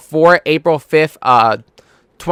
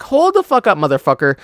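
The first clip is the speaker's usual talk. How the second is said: retold anger; 3 semitones higher than usual. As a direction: re-enact cutting in angrily on someone. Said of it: "Like, I got mad".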